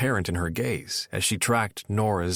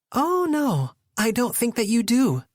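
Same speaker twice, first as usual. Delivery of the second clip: higher, louder objecting; raised voice arguing; 13 semitones higher, 4 dB louder than usual. A narrator's reading. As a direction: push back, voice rising. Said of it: "Nora argued, raising her voice".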